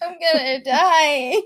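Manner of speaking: drawn-out comic doom; mock panic. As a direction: whine it as if doomed. Mock panic in retold scare.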